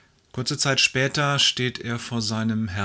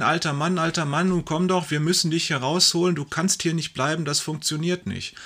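calling in; 5 semitones higher than usual. Acted. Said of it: "rufen hinein".

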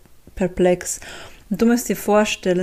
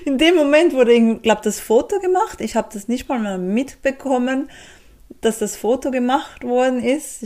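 talking through laughter; giggling, pitch up high; laughing; 5 semitones higher than usual. Real, not acted. Laughing while telling the photo moment.

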